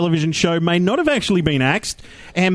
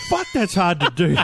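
out of breath. Real, not acted. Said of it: "without taking a breath".

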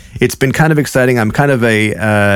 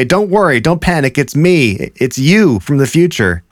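higher-pitched, urgent reassurance from a future self; 5 semitones higher than usual. Pretend. Future self tells startled younger self not to panic, higher-pitched mock reassurance. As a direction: play a visitor from the future calming someone. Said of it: "You would appear out of the ether".

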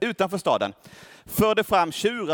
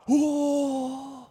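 higher, gushing admiration; awed crowd; 5 semitones higher than usual. Retold or imitated. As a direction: gush over them as if they were gods. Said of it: "och folket i staden bara".

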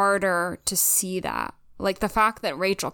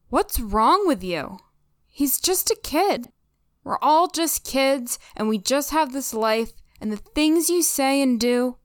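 pleading reproach; 4 semitones higher than usual. Acted. Reads Abby's emotional monologue from episode.

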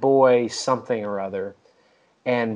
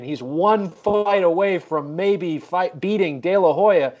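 swaggering boast; 5 semitones higher than usual. Retold or imitated. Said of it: "where the swagger was".

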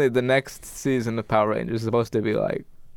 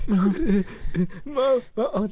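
put-on much higher, whiny kid calling mom; mock kid whimper; 9 semitones higher, much slower than usual. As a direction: tease him by squeaking for mom. Mocking friend's childhood panic.

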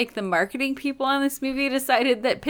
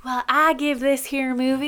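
put-on Georgia accent; 4 semitones higher than usual. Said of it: "Oh, you're going Georgia".

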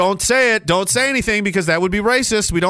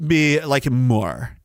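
lower, sneering mock disbelief; lightly voiced sneering skeptic; mock sneering critic; 4 semitones lower than usual. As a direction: scoff like a smug critic. Imitating a dismissive critic.

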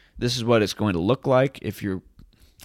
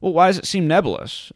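mock incredulous; 8 semitones higher, 5 dB louder than usual. Mocking the article's claim.

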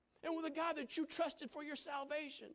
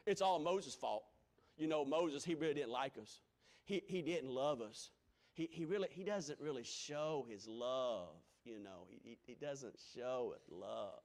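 lower, grumbling complaint; griping crowd; 10 semitones lower, 3 dB quieter than usual. Retold or imitated. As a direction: whine like an online crowd. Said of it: "they'd say".

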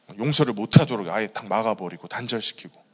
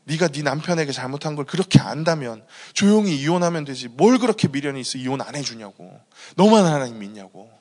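imitated berating, louder than usual; angry berating; 4 semitones higher, 6 dB louder than usual. In-laws berating the wife about divorce, angry. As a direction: retell the in-laws' reproach, building to a loud finish. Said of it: "온갖 구박을 진짜 다 당하셨죠".

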